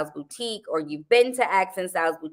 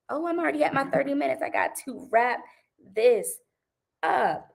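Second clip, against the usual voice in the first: high, fast mock voice of a guy cutting the date short; mock hurried partner; 8 semitones higher than usual. Mocking a man who rushes off after thirty minutes, high and fast. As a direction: toss it off like someone checking the clock.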